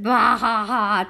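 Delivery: bah ha ha read out calmly; just read the laugh, no performance; flat read laugh. Retold or imitated. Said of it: "She said".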